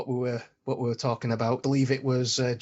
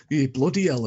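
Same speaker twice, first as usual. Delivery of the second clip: a light Yorkshire accent, a mild mock grumble; a touch of a grumbling Yorkshire engineer; 4 dB louder than usual. Actor's audition in a light Yorkshire accent, grumbling. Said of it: "the only thing he could think of was a Yorkshire accent".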